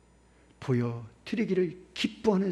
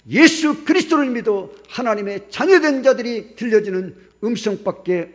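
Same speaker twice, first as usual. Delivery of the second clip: loud, higher, insistent sermon cadence; preaching at full force; 5 semitones higher, 8 dB louder than usual. Acted. Pastor urging the congregation toward prayer and praise, loud and insistent. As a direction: hammer each phrase home like a revival preacher.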